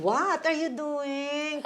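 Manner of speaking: slow, laughing mock question; laughing while quoting. Wife laughingly imitating her husband's old put-down. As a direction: drag it out through a laugh.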